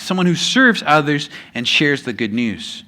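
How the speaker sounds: dictating slowly for notes, each word spaced; slow note-taking dictation. Shown as a demonstration. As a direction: say it so they can write it down. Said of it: "If you're taking notes, that's one of the blanks".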